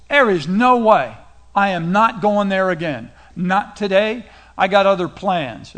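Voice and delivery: mock defiant refusal. Son refusing his father's order to work the vineyard, mock defiant. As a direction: play a son digging in his heels.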